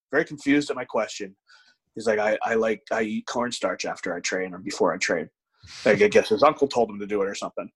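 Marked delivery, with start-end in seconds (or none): 2.2-5.3 soft-spoken guy. Retold or imitated. Imitating the big lifter answering his question, soft-spoken. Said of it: "very soft spoken".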